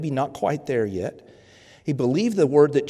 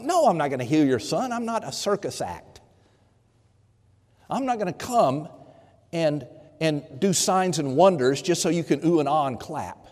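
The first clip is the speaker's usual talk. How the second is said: harsh rebuke; 3 semitones higher than usual. Retold or imitated. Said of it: "it's a harsh rebuke".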